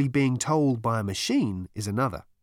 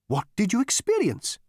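Gargravar voice; 10 semitones higher than usual. Acted.

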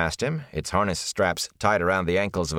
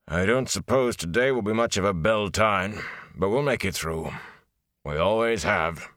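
weary blacksmith. Acted. Blacksmith consoling Rand after the raid, lightly voiced and weary.

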